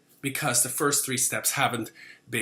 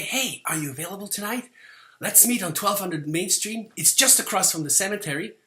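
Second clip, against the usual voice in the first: 1 creepy hushed invite. Shown as a demonstration. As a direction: make the meeting spot sound shady. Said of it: "it matters how you say certain things".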